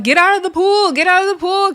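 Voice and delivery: imitating a brawler yelling to leave the pool; mock yell. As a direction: shout the order, hammed up. Big Lex yelling at Scotty.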